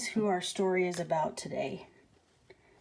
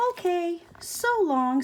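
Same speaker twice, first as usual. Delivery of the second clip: cheerful goodbye; 9 semitones higher than usual. Acted. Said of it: "said Rosie cheerfully".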